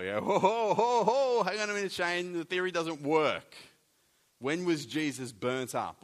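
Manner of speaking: loud, high heckling objection; mock objector. Preacher playing a doubter interrupting him, loud mock heckle. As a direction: shout it down like a sceptic in the pews.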